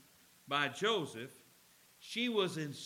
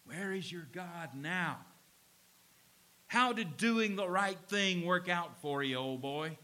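mock hissing devil; 2 semitones lower than usual. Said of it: "with a hissing voice whispering in his ear".

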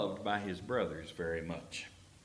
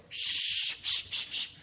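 whispered hushing shh; shushing whisper; slower than usual. Retold or imitated. Soldiers hushing David so the giant won't hear, whispered. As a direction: hush them in a breathy whisper. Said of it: "can't you see everybody else going".

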